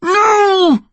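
high, wailing no; anguished refusal. A narrator's reading. Connor looking at his mother's face, anguished cry. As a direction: cry it out in desperation. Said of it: "Connor said again".

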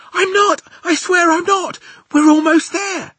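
high, loud, urgent swearing; insistent. Acted. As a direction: plead excitedly to be believed. Sophie swears they are close.

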